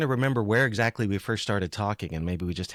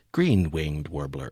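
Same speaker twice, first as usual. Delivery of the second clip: lightly imitated monotone tape narrator, slow and lower; a hint of a dull cassette announcer reading a bird name; 5 semitones lower, slower than usual. Host mimics the old bird-call cassette, mild slow monotone. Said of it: "with the monotone voice saying".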